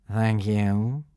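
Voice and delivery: sneering. Acted. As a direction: sneer the thanks. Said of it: "sneered the thin prefect".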